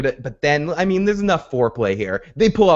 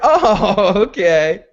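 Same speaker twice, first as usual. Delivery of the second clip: mock surprise; 8 semitones higher, 4 dB louder, much slower than usual. Hound reacting to Jaime's name.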